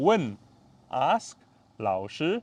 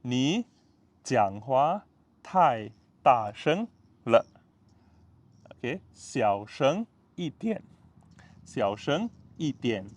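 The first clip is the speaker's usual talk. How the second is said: slow; slower than usual. Shown as a demonstration. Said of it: "Okay, follow me, ah".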